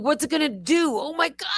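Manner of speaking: high, mock panicked wail; hammed-up distress without full volume; retold screaming. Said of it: "I'm literally screaming".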